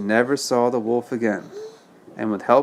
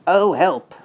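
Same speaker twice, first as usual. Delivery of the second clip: shivering plea; 6 semitones higher than usual. Acted. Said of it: "shivered Horace".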